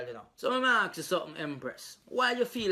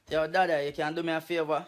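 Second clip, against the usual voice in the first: Jamaican Patois. Acted. Same request replayed in Patois.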